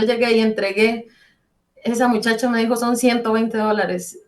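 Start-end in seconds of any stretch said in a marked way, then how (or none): 2.8-4.2 slow and deliberate, each word weighed; slow, astonished. Retold or imitated. Clerk tells her the bill, slow and deliberate. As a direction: let the amount land slowly. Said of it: "fue algo tan increíble".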